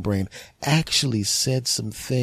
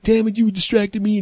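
imagined yelling; 12 semitones higher, 5 dB louder than usual. Retold or imitated. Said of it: "start yelling at the person on the phone".

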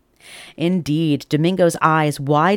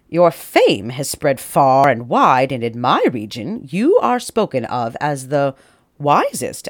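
formal letter read; 4 dB louder than usual. Acted. King reads the grand letter aloud.

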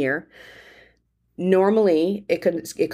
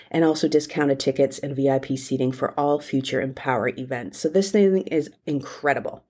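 breathless from excitement; running out of air, pregnant; out of breath; 3 semitones lower than usual. Real, not acted. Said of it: "got excited and I'm running out of breath".

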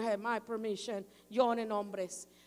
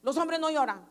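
a father's firm, louder no crying; stern father scolding; 6 dB louder than usual. Retold or imitated. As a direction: scold the little boy like a dad. El papá le dice. (un papá regañando al niño, firme y fuerte)

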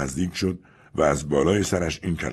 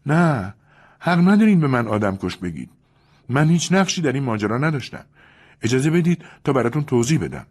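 higher, pleading protest; trembling Julia; 9 semitones higher, 4 dB louder than usual. Acted. Julia to Louis, denying murder in protest. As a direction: deny it desperately. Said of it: "روی لبان لرزانش".

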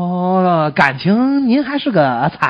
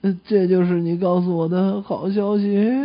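slow, drawn-out patient voice; seriously ill patient. Acted. Patient let down by the doctor's news, slow and drawn out. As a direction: play a let-down sick man. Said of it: "住着一个重病号".

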